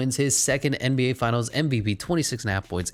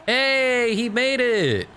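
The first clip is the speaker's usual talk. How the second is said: high, loud surprised cheer; excited cheer; 4 dB louder, much slower than usual. Real, not acted. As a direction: celebrate the made shot out loud. Shot goes in.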